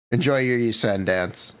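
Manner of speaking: laughing through the line. Real, not acted. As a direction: chuckle while saying it. Laughing at wrong character.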